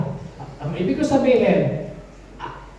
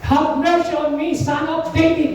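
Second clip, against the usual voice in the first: higher-pitched, restrained calling out; imitated cry for mercy; 4 semitones higher than usual. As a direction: act out the blind man's plea at modest volume. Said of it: "Ganun po ang sigaw niya". (banayad na ginayang sigaw)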